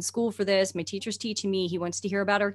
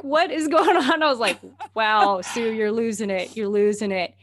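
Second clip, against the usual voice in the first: startled disbelief; 2 semitones higher, 7 dB louder than usual. Retold or imitated.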